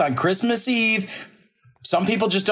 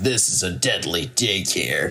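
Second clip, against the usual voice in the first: low, slow mock-dramatic movie line; solemn TV-detective voice, played for laughs; detective's grim pronouncement; 12 semitones lower, 3 dB quieter than usual. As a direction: deliver a hammy closing line, low and slow. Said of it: "now that she's dead, she says".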